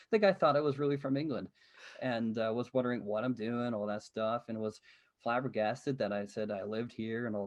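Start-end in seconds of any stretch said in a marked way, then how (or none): 0.1-1.5 fast, laughing through words. Real, not acted. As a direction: chuckle while telling it. Laughs telling gas station story.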